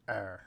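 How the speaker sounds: 'er' with a throaty French R; back-of-throat French 'er'. Shown as a demonstration. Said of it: "again the throaty R".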